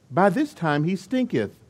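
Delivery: put-on a touch of solemn old Bible English; King James voice. Martha warning Jesus about the tomb, mock King James voice. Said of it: "she used her King James voice".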